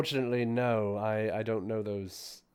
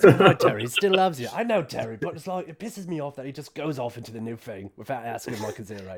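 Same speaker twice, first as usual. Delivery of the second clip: arguing with the familiar; 2 semitones higher, 5 dB louder than usual. Pretend.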